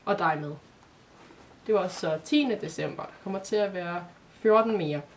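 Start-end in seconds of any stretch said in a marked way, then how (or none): 0.1-0.5 eased off after a hard reply; a little softer. A narrator's reading. Boy adds that he knows her too, a little softer. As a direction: add it a touch more gently. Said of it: "tilføjede lidt mere blødt".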